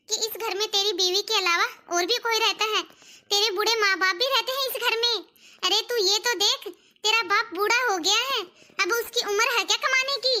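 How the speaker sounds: forceful, insistent scolding; a mother's heated complaint; angry reproach. Acted. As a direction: berate your son, pushing each phrase. Mother berates son in family quarrel.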